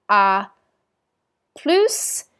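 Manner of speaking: à plus with the S sounded; final s pronounced. Shown as a demonstration. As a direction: say "plus" as plooss, S audible. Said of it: "S's at the ends of words are not pronounced... exception".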